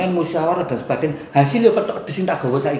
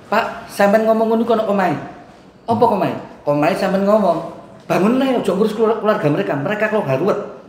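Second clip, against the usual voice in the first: emotional retort; 6 semitones higher than usual. Retold or imitated. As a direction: fire it back at the official in a retold argument. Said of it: "saya emosi".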